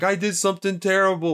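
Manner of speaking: high, tearful, weeping crying voice. Describing a film scene, quoting her in the car: imitating Yolanda crying. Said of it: "Yolanda's crying in the car and she's like".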